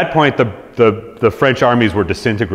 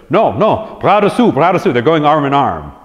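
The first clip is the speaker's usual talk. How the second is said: high, put-on bad French accent; Churchill's French; 5 semitones higher than usual. Churchill bluffing the French in broken French, high mock accent. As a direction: Churchill mangling French, pitched up. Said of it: "was like".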